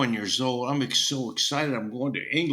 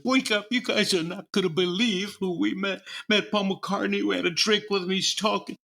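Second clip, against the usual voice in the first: higher-pitched, breaking the big news; retold excitement, pitched up throughout; excited; 7 semitones higher than usual. Waking bandmates after meeting a famous singer, excited. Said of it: "I was so excited".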